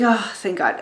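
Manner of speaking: soft, relieved exhale of words; understated retold relief; mock relief. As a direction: sigh it out quietly with relief.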